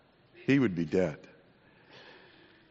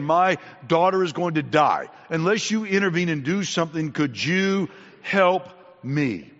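earnest plea, slowing heavily at the end; retold desperate plea; 3 semitones higher than usual. Synagogue official begs Jesus for his daughter, retold plea. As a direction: build the appeal, then draw out the last words.

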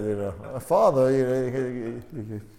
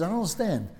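high, mock-exasperated wife; hammed-up complaining wife; imitating angry wife; 5 semitones higher than usual. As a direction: play the fed-up wife, pitched up. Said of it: "she gets fuming angry. She says".

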